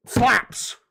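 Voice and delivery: sudden loud high yelp; excited cry. Real, not acted. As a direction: blurt it out. Pop-Tart praise.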